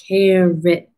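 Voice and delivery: "Carrot" as two distinct, measured beats; syllable by syllable. Shown as a demonstration. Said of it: "How many syllables?".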